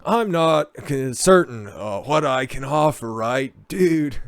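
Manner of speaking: lightly voiced surfer dude; Spicoli. Host reading the actor's quote, light Spicoli accent. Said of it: "using proper Spicoli accent".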